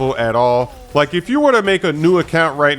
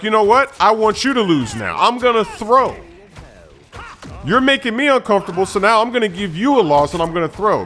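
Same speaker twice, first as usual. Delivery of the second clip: mildly mimicking a miffed player; upset teammate; 3 semitones higher than usual. Upset teammate threatening to throw the game, mildly mocked. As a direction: imitate a put-out teammate. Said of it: "they get upset".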